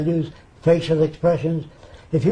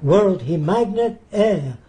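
slow, higher mimicked Arab-accented English; imitated broken English; 3 semitones higher, slower than usual. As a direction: imitate a foreigner slowly working it out. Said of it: "He said".

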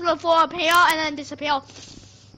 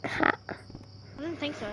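slow breathless whisper; 4 semitones lower, 12 dB quieter, much slower than usual. Real, not acted. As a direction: barely voice it, slowly. Scared in ghost house.

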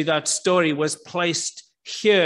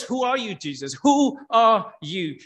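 mildly desperate questioning; 3 semitones higher than usual. Retold or imitated. Preacher voices the crowd questioning Jesus, mildly desperate. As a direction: voice the crowd's demand, stretching out the last asking. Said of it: "almost a desperation in the crowd".

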